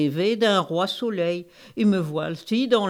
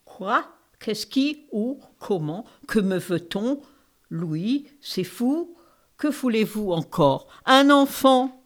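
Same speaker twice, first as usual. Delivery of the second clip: put-on queen with an Eastern accent. The queen answers the king in an Eastern accent. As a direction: speak French with a light Eastern European accent. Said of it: "Vous avez un bel accent de l'Est".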